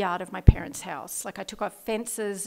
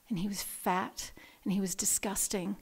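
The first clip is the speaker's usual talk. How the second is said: whisper; 6 dB quieter than usual. Real, not acted. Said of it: "unvoiced whisper".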